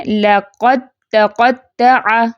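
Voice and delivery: slow recitation, د merged straight into ت in لَقَدْ تَقَطَّعَ; tajweed recitation. Shown as a demonstration. Teacher shows students idgham of dal into ta, slow recitation. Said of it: "دال کا تا میں کیسے".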